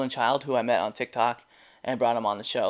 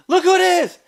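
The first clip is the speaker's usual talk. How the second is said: surprised; 11 dB louder than usual. Real, not acted. Spots someone on screen.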